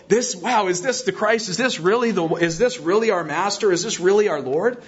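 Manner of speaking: breathless wonder at seeing the risen Lord; joyful disbelief. Acted. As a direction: voice the disciples' astonished joy. Disciples' joyful disbelief acted out.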